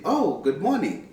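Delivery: high "Oh" then good morning; delighted reply; excited greeting. Shown as a demonstration. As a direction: greet back with pleasure. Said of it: "you're excited that they've greeted you".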